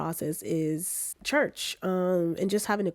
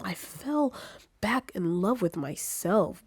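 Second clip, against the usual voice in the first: lightly put-on British accent, slow and drawn out; a playful hint of posh British; much slower than usual. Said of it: "I gotta drop this British accent".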